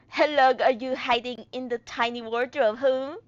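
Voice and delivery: put-on rough stab at a Russian accent. Captor to someone hiding in a wardrobe, shaky-attempt Russian accent. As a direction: question them in an unsure Russian accent. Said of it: "how to do a Russian accent".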